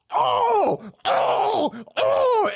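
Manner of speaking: very high mock cries of pain; high falsetto mock whimpers; imitated pained yelps. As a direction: squeal like a hurt reporter. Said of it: "the dude straight went".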